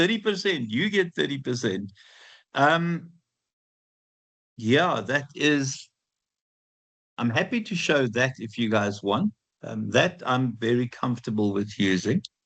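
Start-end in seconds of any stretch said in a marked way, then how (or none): 0.0-1.9 pitched-up announcer voice, like handing out prizes. Announcing a percentage to the students: Oprah giveaway voice. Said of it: "I feel like Oprah".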